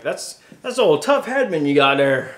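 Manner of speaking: bad Southern accent. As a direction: imitate a commenter in a clumsy Southern accent. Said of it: "Southern accent is not great".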